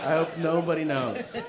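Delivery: giggling while repeating the thought; laughing repeat. Retold or imitated. Recalling his only thought in hospital, laughing. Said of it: "That's the only thing I'm thinking".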